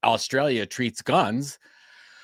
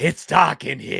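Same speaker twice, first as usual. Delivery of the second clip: higher, louder mock movie voice; mock trailer wail; 5 semitones higher, 5 dB louder than usual. Co-host mocks the dark image in a trailer wail. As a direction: wail it like a doomed movie child.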